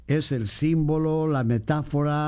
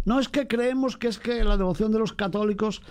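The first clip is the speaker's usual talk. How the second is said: higher, slowed imitation of a doubting Protestant; mock objector; 4 semitones higher than usual. Priest voicing a Protestant's objection, mild mock. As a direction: lightly mimic a skeptic.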